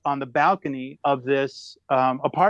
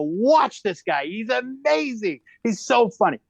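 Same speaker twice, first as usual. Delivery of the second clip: excited whisper-tout; 7 semitones higher, slower than usual. Retold or imitated. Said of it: "I go".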